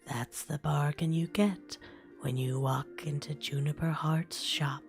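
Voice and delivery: put-on whispered gravelly old shopkeeper; gravelly old lady voice. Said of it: "I'm using my gravelly old lady voice".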